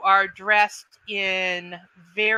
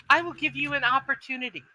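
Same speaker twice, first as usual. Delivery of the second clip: higher and fast, a lightly voiced mistress; elf mistress, quick; 5 semitones higher, much faster than usual. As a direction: rush the offer with cool authority. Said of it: "she goes".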